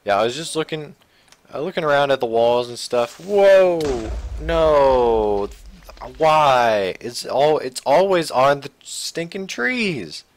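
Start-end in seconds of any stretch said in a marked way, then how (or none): 3.2-7.0 loud startled shouts; shocked outcry. Real, not acted. Creeper blows up his build. 7.0-10.2 higher, slow, fed up; exasperated complaint. Real, not acted. Exasperated after the explosion.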